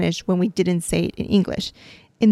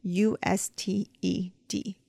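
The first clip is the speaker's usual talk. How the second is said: spelling out; 6 dB quieter, slower than usual. Shown as a demonstration. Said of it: "use the word usted".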